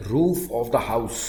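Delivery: slow, even dictation pace. Shown as a demonstration. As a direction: say it slowly so they can write. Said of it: "घर की छत". (धीरे धीरे लिखवाना)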